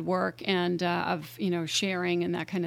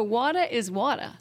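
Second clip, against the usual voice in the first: "water" with a dropped final R, Boston style; Boston accent; 2 semitones higher than usual. Shown as a demonstration. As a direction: show off the Boston pronunciation of "water". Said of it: "So accents are relative".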